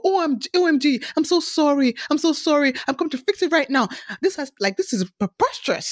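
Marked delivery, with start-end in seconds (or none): 0.0-3.9 higher, fast, gushing apologies; over-the-top apologetic host. Retold or imitated. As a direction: lightly mimic a host overdoing the sorry. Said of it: "makes it, like, a big deal and go".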